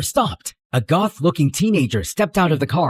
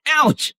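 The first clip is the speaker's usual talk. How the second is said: sharp yelp of pain; 11 semitones higher than usual. Acted. Hit heads hard.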